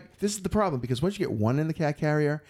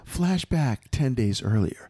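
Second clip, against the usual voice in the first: dramatic flashback; slower than usual. Acted. Dramatic story flashback announcement.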